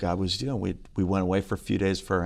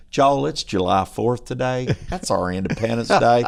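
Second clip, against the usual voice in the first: put-on North Carolina accent; 4 semitones lower than usual. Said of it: "North Carolina accent".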